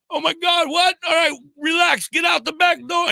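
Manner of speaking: high, loud urgent commands; frantic shouting. Retold or imitated. Trapped driver shouting to the kids to get out, frantic. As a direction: shout orders in a panic. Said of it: "I'm going".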